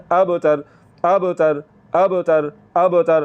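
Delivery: اب تر with a bounced b; اب تر, echoing qalqala on b. Shown as a demonstration. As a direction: give the b in اب تر a jolt. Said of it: "وہاں پر ہم نے جھٹکا لگانا ہوتا ہے".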